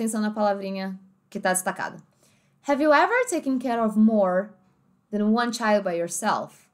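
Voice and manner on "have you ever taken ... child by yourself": American English, R sounded in ever and more; American accent. Shown as a demonstration. Teacher reading the example sentence, American accent. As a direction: pronounce more with a full American R. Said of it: "no inglês americano a gente falava como?".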